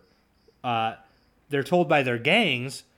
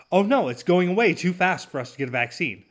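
higher, mock-panicked whine; mock worry; 5 semitones higher, 4 dB louder than usual. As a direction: parody the experts' fake alarm. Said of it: "that said".

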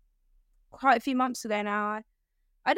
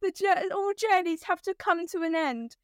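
laughing through a quote; 5 semitones higher, slower than usual. Retold or imitated. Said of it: "something along the lines of".

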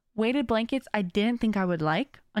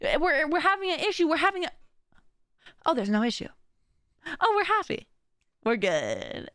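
higher, confused brain voice turning relieved; mock-confused inner voice, higher; voicing the brain; 6 semitones higher than usual. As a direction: play your own brain puzzled, then realising all is fine. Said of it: "your brain goes".

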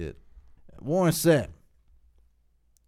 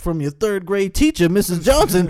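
rising, louder as the reveal builds; playful game-show reveal, getting louder; mock announcing host; 2 semitones higher, 5 dB louder than usual. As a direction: hype it up like a surprise guest intro. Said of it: "I'm like".

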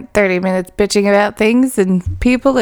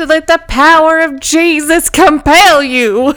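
slightly higher, slow mock exorcism; mock preacher; 5 semitones higher, slower than usual. Quoting a drunk guy in New Orleans, a mock preacher's command. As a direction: intone it like a TV preacher. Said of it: "And I said".

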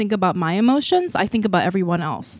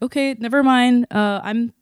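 a hint of a cowed mother, slowed down; meek mom; 2 semitones higher than usual. Mom backs down after outburst.

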